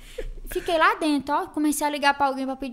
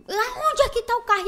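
mock stern father; 11 semitones higher, 4 dB louder than usual. Father demanding where car is.

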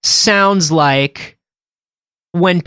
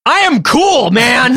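mock insistence; 7 semitones higher, slower than usual. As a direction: insist you're cool, teasing. Play quarrel.

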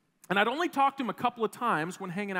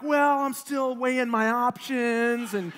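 putting on a front; 4 semitones higher, 4 dB louder than usual. Retold or imitated. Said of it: "trying to make it sound the best I can".

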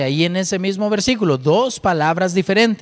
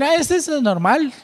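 imagined skeptic; 5 semitones higher than usual. Retold or imitated. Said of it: "cualquiera hubiera podido decir".

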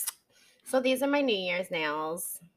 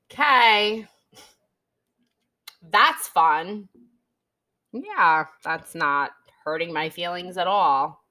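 sarcastic; 6 dB louder than usual. Retold or imitated. Sarcastic reaction to ex photos.

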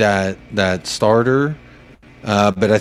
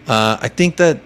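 usual speaking voice

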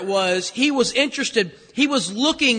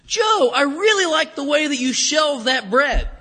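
lightly voiced boss paying a slow compliment; slightly higher, drawn-out praise before the criticism; hint of a boss buttering someone up; first boss; 4 semitones higher, slower than usual. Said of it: "I remember my first boss".

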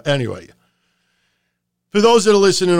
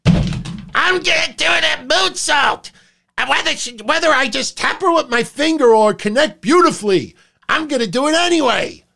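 mock the careless wrestler's thinking, pitched up; cocky wrestler mindset; 9 semitones higher, 3 dB louder than usual. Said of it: "you can't have it in your mind that".

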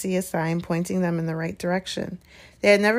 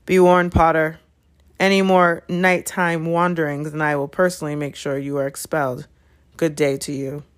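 menacing Snape; 2 semitones lower, 4 dB louder than usual. Acted. Snape threatens Potter with expulsion, menacing.

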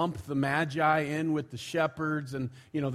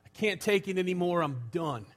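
fed-up New York dad, higher and fast; acted New York exasperation, falling away on the last words; New York accent; 6 semitones higher, 4 dB louder than usual. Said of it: "And in his New York, uh, accent".

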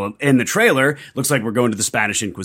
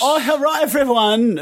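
sultry greeting; 12 semitones higher, 3 dB louder than usual. Pretend. Guest greets in put-on voice.

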